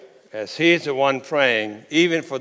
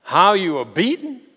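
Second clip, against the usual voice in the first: exasperated rebuke; 6 semitones higher, 5 dB louder than usual. Acted. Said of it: "why did Moses just say".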